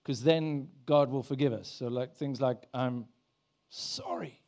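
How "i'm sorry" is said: groveling apology. Pretend. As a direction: whisper a pleading, put-on apology. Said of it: "I thought pleading means groveling".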